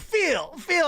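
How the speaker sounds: high raspy imitation. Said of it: "weird raspy voice".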